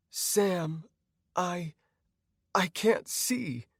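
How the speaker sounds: high, halting, frightened voice; high-pitched, slow, scared woman; growing panic. Acted. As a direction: falter as the panic rises. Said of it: "she said with growing panic".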